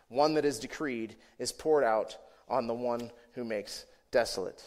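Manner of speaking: measured reading from the pulpit; solemn, deliberate Bible reading; scripture reading. Acted. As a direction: read it out phrase by phrase, pausing between clauses. Reads the scripture passage aloud.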